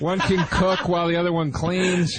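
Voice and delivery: sarcastic mock praise. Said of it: "why are you being sarcastic".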